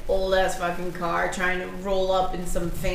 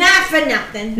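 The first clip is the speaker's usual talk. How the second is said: louder Gloucester-accented not for nothing; 3 semitones higher, 4 dB louder than usual. Shown as a demonstration. Gloucester accent, mimicking her friend's island phrase. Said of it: "island things".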